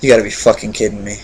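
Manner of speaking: lightly acted, low-key exasperation; imitated Hansel. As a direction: toss off his disbelief under your breath. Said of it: "Hansel just looks like".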